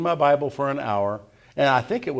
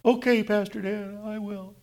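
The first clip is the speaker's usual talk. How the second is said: higher, lightly voiced young girl; imitating the girl; 10 semitones higher than usual. Girl answers pastor gratefully.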